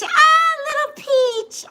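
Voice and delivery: high cooing through laughter; laughing coo. Real, not acted. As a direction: coo at the little pet. Sees viewer's pet.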